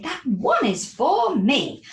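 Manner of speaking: excited cry. Acted. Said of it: "she cried".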